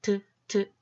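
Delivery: 드 as a short isolated T sound, 트; short, separated 드 beats for letter T; letter sound demo. Shown as a demonstration. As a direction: sound out 드 twice as the t sound. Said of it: "마지막 T는".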